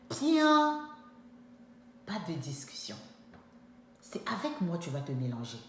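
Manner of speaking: hushed but final; firm whisper. Retold or imitated. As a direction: whisper it, no arguing.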